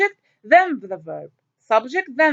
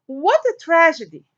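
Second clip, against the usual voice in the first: exclamation read; 4 semitones higher than usual. Shown as a demonstration. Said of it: "I'm expressing my feeling towards something".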